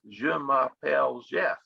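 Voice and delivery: Southern US drawl on the French words; French with a lightly put-on Southern US accent. Teacher imitating Louisiana French, Southern US accent. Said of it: "they say".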